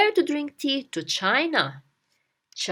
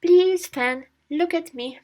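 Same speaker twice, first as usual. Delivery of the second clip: acted appeal to a friend; 5 semitones higher than usual. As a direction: implore a friend to pay attention. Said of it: "You tell your friend".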